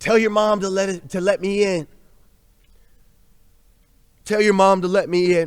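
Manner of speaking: imitated calm, soothing voice. Retelling how dad spoke to the children to be let in: imitating dad's calm, soothing voice. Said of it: "this calm, soothed voice".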